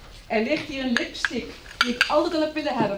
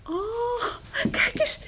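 high, laughing question; laughing delight; 11 semitones higher than usual. Acted. Josella laughs, delighted by the luxury bedroom. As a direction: giggle through it, thrilled.

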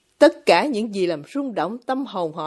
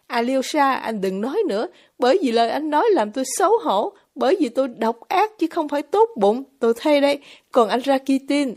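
a lightly voiced young woman, pitched up and earnest; confessing herself to Alyosha, a little higher than the narration; lightly raised woman's voice, heartfelt; Grushenka; 5 semitones higher than usual. Grushenka's outburst.

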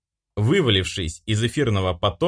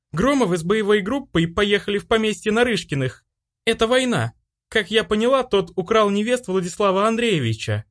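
put-on much higher, urgent girl's voice; young female attendant; 11 semitones higher than usual. A narrator's reading. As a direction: report breathlessly to the empress. Servant girl reports to empress.

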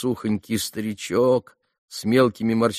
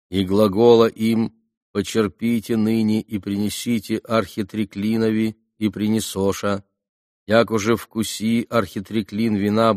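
church scripture reading. A narrator's reading. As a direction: intone it like a psalm reader in church. Gospel read aloud at vigil.

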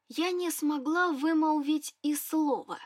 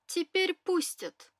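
pleased; 5 semitones higher, slower than usual. Acted. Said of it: "обрадовал господин Лотрик".

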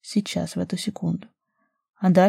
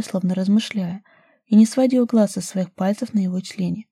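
ordinary delivery

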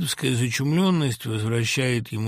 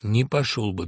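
firmly; 4 semitones lower than usual. Acted. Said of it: "твёрдо сказал Свиридов".

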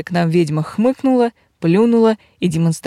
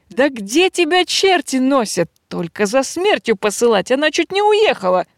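scolding; 6 semitones higher than usual. Acted. Bandit scolds late servant.

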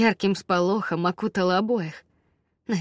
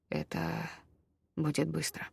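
whisper; 4 semitones lower, 9 dB quieter than usual. A narrator's reading. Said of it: "Воск тоже сбился на шёпот".

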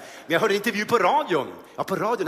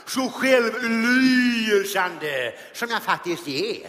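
slow, hammed-up grand actor; milk the vanity, then burst out; Ernst-Hugo voice; 3 semitones higher, slower than usual. Comedian as Ernst-Hugo, slow hammed-up vanity.

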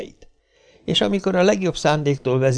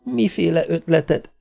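mildly grumpy wife, pitched up; understated sullen question; sullen, uninterested; 6 semitones higher than usual. A narrator's reading. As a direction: ask with little interest. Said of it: "kérdezte az asszony mogorván, minden érdeklődés nélkül".

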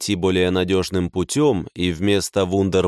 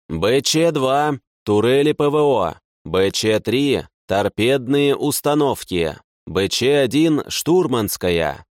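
listing commands; 3 semitones higher than usual. A narrator's reading. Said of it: "продолжил перечислять Семёнович".

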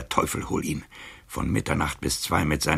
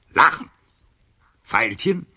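shouted high and loud; bitter shout; 8 semitones higher, 8 dB louder than usual. Acted. Old librarian shouting bitterly at the count about the laughter. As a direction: hurl it at him. Casanova recounts mocking laughter.

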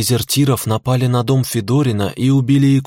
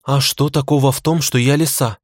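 slightly offended; 3 semitones higher than usual. Acted. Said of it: "слегка обиделась Цуки".

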